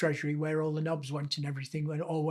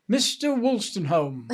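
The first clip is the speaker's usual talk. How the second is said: slow, higher summoning call; Miss Bruce; 4 semitones higher, 4 dB louder, slower than usual. Retold or imitated. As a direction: imitate her calling him back, drawing out the name. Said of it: "I can hear her saying it now".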